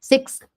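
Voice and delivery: "Sixth." with an x sound pulled straight into th; "Sixth." with a quick x then th. Shown as a demonstration. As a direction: slide from the x of "Sixth." into a blown th. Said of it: "você faz o X e já puxa o T H".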